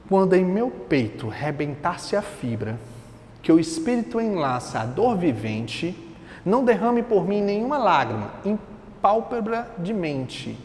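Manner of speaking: slow, measured poem reading; poetry recitation. Acted. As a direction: recite the verses line by line, unhurried. Reads poem aloud.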